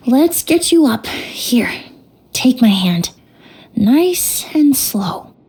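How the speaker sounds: hushed and careful, slow; gentle whisper. Acted. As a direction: coax him up slowly in a whisper. Helping grieving man stand up.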